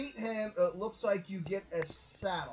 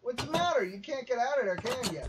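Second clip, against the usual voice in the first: mocking taunt; 4 semitones higher, faster than usual. Real, not acted. Mocking trapped mob.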